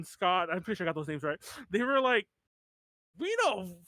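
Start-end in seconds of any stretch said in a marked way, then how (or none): 3.2-3.8 slow, mock Australian rocker drawl; lightly put-on Australian accent, unhurried. Band members answering the TV host, in a mild Australian accent. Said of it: "heavy British accents or Austra".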